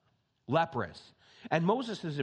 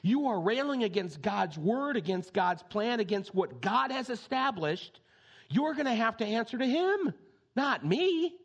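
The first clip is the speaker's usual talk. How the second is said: high ringing rebuke from Moses; Moses rebuking; 6 semitones higher than usual. Acted. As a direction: confront the complainers with fierce conviction. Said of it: "At one point he says".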